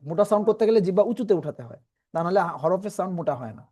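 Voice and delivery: usual speaking voice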